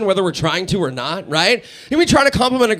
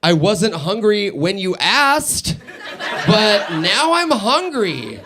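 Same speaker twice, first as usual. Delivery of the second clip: put-on slow, giggling girlfriend whine; laughing mock girlfriend; much slower than usual. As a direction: drawl it out while laughing. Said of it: "I go".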